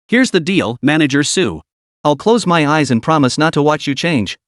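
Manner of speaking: muffled behind a hand over his face. Acted. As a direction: speak as if a palm covers your mouth. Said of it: "muffled voice came from beneath her palm".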